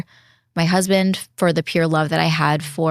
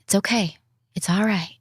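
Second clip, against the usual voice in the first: soothing self-talk. Retold or imitated.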